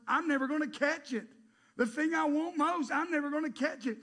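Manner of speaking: loud, high exasperation; frustrated. Acted. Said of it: "It became frustrating me".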